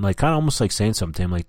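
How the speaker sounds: ordinary talk, nothing marked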